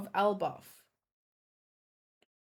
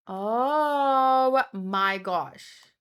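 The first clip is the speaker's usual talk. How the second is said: amazed; 4 dB louder, much slower than usual. Real, not acted. Reacting to a big theory reveal.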